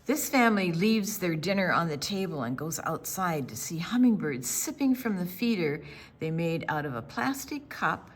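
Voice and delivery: put-on gentle read-aloud narration for kids; story narration. A narrator's reading. Librarian reading to children, gentle storytelling voice. Reads picture book aloud.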